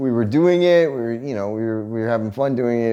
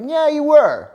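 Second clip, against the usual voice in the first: confrontational; 13 semitones higher, 4 dB louder than usual. Retold or imitated. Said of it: "I was like".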